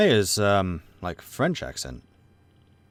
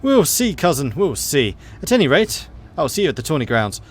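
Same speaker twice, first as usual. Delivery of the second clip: higher, louder voice for the boastful cousin; high, loud mocking noblewoman; taunting rival cousin; 4 semitones higher, 5 dB louder than usual. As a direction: crow about the tourney like a smug rival. Rival cousin's parting line.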